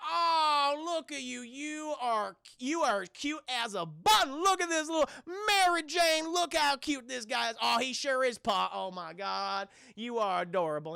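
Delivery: put-on high, gushing old-folks voice; hammed-up adoring old couple; elderly couple cooing. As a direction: coo over someone cute like doting elders. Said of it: "it's this elderly couple".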